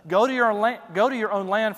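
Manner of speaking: frustrated. Retold or imitated. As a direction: send them home in a frustrated huff. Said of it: "You can almost hear the frustration".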